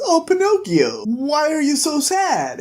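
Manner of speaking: high sugary put-on Beauty; mock sweet high voice. Beauty coos at sad Pinocchio, high and sweet.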